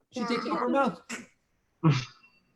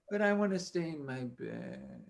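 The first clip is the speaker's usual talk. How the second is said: sleepy Clara; 7 dB quieter, slower than usual. Acted. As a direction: sink back into the pillow. Clara torn, sleepy half.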